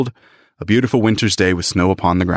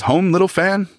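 surprised; 9 semitones higher than usual. Acted. Young Scrooge surprised.

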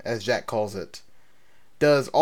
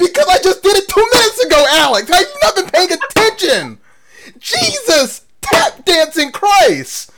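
high, loud exasperated outburst; exasperated yelling; 8 dB louder than usual. Real, not acted. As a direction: blow up in shrill disbelief. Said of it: "Let me compose myself for a second".

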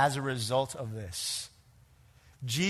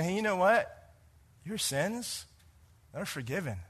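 gentle; 2 semitones higher, 5 dB quieter than usual. Pretend. Speaking forgiveness to a stranger.

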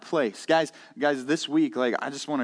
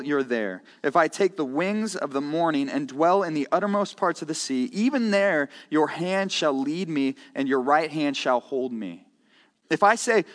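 measured, raised scripture-reading voice; lifted, solemn reading of the verses. Acted. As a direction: read the psalm like a solemn proclamation. Reads the psalm aloud.

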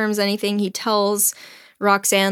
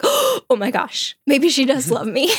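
hopeful excitement; 5 semitones higher than usual. Retold or imitated. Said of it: "And then Cyrano's like".

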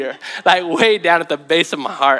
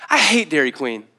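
laughing retort. Retold or imitated. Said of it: "I responded".

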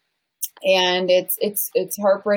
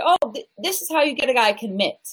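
higher-pitched mock coach voice; relationship coach; 5 semitones higher than usual. Mimicking rival coaches advising women, higher mock advice voice. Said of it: "compared to other relationship coaches".

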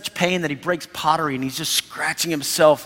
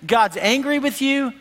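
accusing friends; 5 semitones higher than usual. Retold or imitated. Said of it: "these friends are like".

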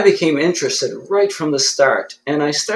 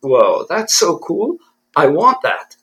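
retold amazement; 3 semitones higher, slower than usual. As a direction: draw it out, re-enacting jaw-dropped awe. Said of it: "my jaw just about dropped".

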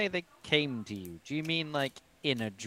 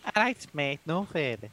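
mock Scouse; 2 semitones higher than usual. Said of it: "he's not Scouse".

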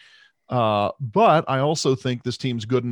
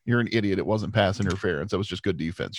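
low, matter-of-fact rebuttal; unimpressed wife; 3 semitones lower, 3 dB quieter than usual. Retold or imitated. Wife corrects a biased fan watching the game, unimpressed. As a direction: put the biased fan straight, dropping lower and softer at the end. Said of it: "And she'll be like".

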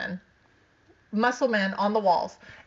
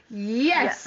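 laughing; 2 semitones higher than usual. Retold or imitated. Eager laughing yes.

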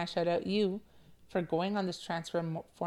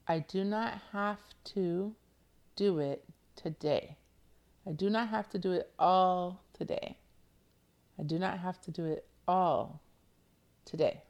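affirmation reading. Shown as a demonstration. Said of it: "You ready for your affirmation?".

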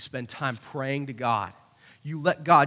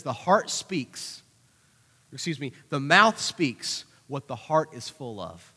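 slow solemn quote; 3 semitones lower, slower than usual. Real, not acted. Quoting Jesus slowly.

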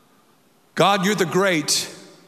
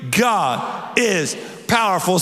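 congregational shout; slower than usual. Real, not acted. Pastor leads the church in shouting it. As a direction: lead the crowd, shouting slowly. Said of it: "say with me that God is powerful".

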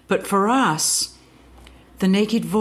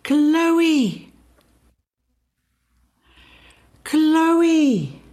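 much higher, held and falling; sounding the name; 11 semitones higher, 4 dB louder than usual. Shown as a demonstration. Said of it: "what the voice did".

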